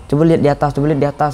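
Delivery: mild mock shout; retold calling out. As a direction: direct them to look up. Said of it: "saya bilang kan".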